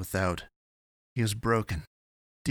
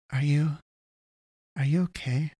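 grudging concern; 7 semitones higher, 3 dB louder than usual. A narrator's reading. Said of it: "almost grudgingly".

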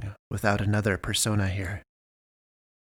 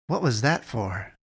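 slow, puzzled question; slow, hurt bewilderment; puzzled character. A narrator's reading. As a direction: ask it baffled and slow. Character startled by the yank.

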